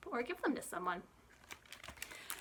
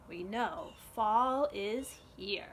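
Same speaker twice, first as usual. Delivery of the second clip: whisper; much slower than usual. Acted. Whispered line in story.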